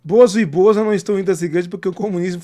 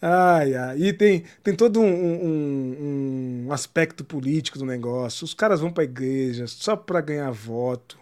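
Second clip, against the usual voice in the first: winded after laughing; catching breath, quieter; after laughing hard; 6 semitones lower, 5 dB quieter, slower than usual. Real, not acted. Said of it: "respira que o jurídico tá te alertando".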